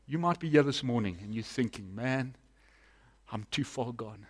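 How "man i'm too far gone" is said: low, soft admission of defeat; quiet resignation. Acted. Preacher voices a listener who feels lost, quietly resigned. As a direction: think it aloud, softly giving up.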